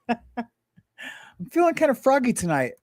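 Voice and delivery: high, slow playful sing-song; goofy high voice, laughing into it; playful froggy. Real, not acted. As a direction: tease the audience, drawn out and lifted. Playful froggy mood on stream.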